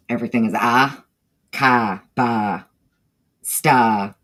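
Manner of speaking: Northeastern r-dropping, "ka" and "sta" with no R; Northeastern accent. Shown as a demonstration. To the chat, showing how Northeasterners drop R's, Northeastern accent. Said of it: "they don't pronounce their R's".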